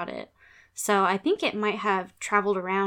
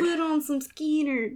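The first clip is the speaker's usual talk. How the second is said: slow mock echo; 6 semitones higher than usual. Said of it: "repeats friend's line".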